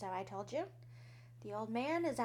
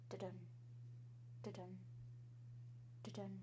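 heartbeat sounds; 3 semitones lower, 14 dB quieter, faster than usual. Acted. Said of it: "I could hear his heart beating".

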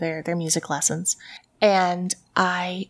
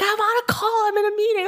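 high-pitched mock holler; retold yelling back; 13 semitones higher, faster than usual. Busy husband yells back at wife, acted shout. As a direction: imitate a husband protesting at a yell. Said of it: "we're just ye-, yelling back and forth".

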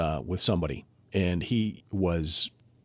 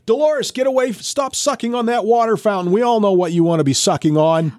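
much higher, louder mock yell; 11 semitones higher, 5 dB louder than usual. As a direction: shout at the patient across the room. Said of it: "she would yell".

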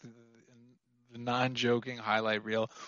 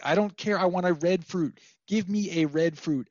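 mock demanding; 4 semitones higher than usual. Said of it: "I, like".

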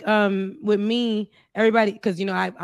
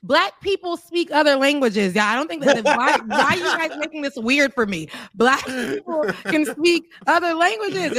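slow, emphatic and exasperated; slowly explaining the obvious to staring shoppers; 4 semitones higher than usual. Retold or imitated. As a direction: spell it out to clueless strangers. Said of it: "And I'm like".

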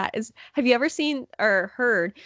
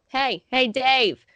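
lightly voiced elderly buddy; a hint of an old fan's call; imitated old men; 2 semitones higher, 3 dB louder, much slower than usual. Old scorekeeper calling his friend, lightly imitated. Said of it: "It's just how they sounded".

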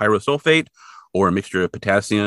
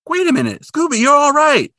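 high, louder cartoon Shaggy, tearful; 5 dB louder than usual. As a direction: pitch way up as a weepy cartoon sidekick. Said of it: "And then Shaggy is like".

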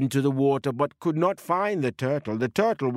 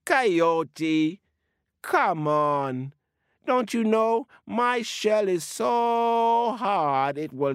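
small, teasing turtle voice, lightly higher; a baby turtle teasing the hungry coyote; 3 semitones higher than usual. Acted. Baby Turtle taunting Coyote from inside its shell, cheeky and light.

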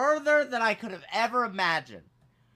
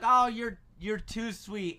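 higher pitched, bashful thanks, lightly acted; politely flattered; 3 semitones higher, slower than usual. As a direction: brush off a compliment politely. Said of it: "I was like".

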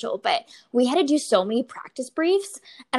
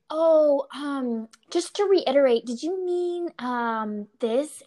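imitating a hesitant question, higher and halting; questionable, unsure; 4 semitones higher, slower than usual. Junior officer checking an order, imitated as unsure and questionable. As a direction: tiptoe into the question with halting ums.

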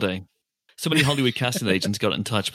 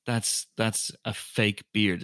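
whispered aside; 4 semitones lower, 7 dB quieter than usual. Retold or imitated. Mocking a lazy Santa.

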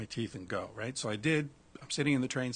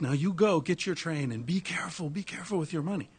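put-on Indian accent; 6 semitones higher than usual. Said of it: "my Indian accent sucks".

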